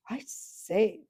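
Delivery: hushed, shocked little exclamation. Acted. Boy shocked at the horse's disrespect, whispered. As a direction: gasp it out, scandalised. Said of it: "in a rather shocked voice".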